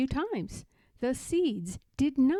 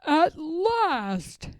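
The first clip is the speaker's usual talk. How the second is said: loud, high cry of joy; joyful loud shout; 5 semitones higher, 5 dB louder than usual. A narrator's reading. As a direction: Toad shouting in relief. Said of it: "shouted Toad".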